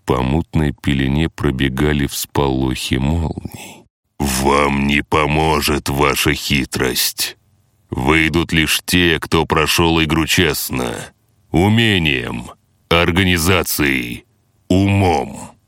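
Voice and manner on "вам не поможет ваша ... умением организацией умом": slow cold threatening entity; menacing boss voice. Acted. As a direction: threaten them from above, slowly.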